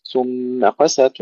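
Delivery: ثم قست with each word kept distinct; slow, separate ثم from قست; two words separated. Shown as a demonstration. Teacher showing the correct way to say ثم قست, words apart. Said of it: "يجب أن نفصل الكلمتين".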